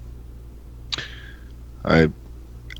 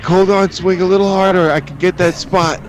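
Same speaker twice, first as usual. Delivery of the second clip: much higher, squeaky window washer; high silly voice; 11 semitones higher than usual. Retold or imitated. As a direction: play the dopey worker cheerfully. Voicing the window washer guy.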